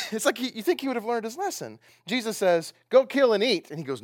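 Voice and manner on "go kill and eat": loud, higher command. Acted. Preacher voicing Jesus ordering Peter to eat, loud command. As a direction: order him firmly, raised voice.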